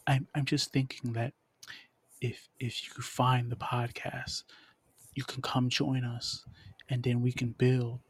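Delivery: smooth, measured creepy-seductive voice. Pretend. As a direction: lightly put on a creepy, seductive voice. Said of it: "I'm using this creepy voice".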